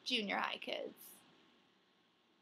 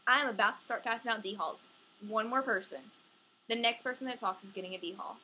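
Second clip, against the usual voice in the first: louder, firm detention warning; loud teacher threat; 5 dB louder than usual. Acted. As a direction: threaten the class firmly.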